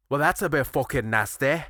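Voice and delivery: light Yorkshire impression; a hint of a miffed Yorkshire woman; Yorkshire accent. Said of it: "in her Yorkshire accent".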